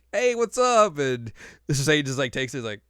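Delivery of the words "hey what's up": high, breezy mock greeting; casual B voice. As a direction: toss it off cheerfully, pitched up. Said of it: "is like".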